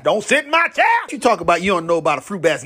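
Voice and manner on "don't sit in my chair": louder, rising church lady repeat; a hint of a church lady pushing harder; church lady insisting. Church lady repeating her warning, louder and rising. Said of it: "like a black woman in church".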